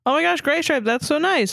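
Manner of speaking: high, gushing squeal at no extra volume; mild mock scream. A narrator's reading. Flattered kitten answers a proposal, high mock scream. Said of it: "Star Kid screamed".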